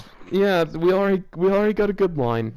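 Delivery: laughing through the words. Real, not acted. Host amused by the fanfic line, laughing. Still laughing after sentence.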